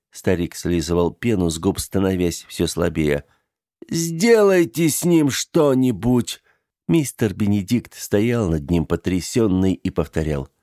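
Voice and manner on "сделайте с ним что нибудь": high, slow begging; slow desperate plea. Acted. The old man begs the dead to act, high and slow. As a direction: plead slowly with the dead. Dying man pleads to graves.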